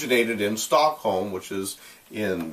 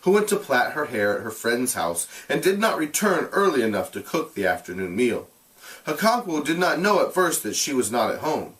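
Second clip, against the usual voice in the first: measured, expressive read-aloud; storyteller reading a classic novel aloud; story narration; 3 semitones higher than usual. A narrator's reading. Teacher reads novel aloud to class.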